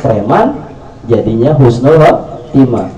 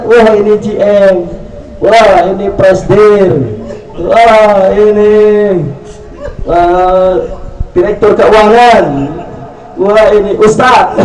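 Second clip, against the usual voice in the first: mock awe; 8 semitones higher, slower than usual. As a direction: pretend to be impressed by each title. Angels mocking titles.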